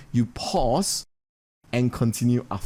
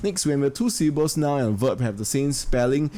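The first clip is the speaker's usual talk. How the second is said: ordinary talk, nothing marked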